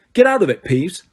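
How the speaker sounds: Harry snarling at the poltergeist; angry snarl. A narrator's reading. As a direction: shove him off with words.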